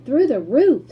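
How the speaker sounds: loud, high triumphant reply; gleeful. A narrator's reading. Mister Wonka gleefully telling Grandpa Joe the plan. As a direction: announce it with relish.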